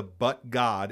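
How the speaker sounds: "but God" leaned on, falling on "God"; emphasized but God. Shown as a demonstration. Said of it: "I wanna emphasize the".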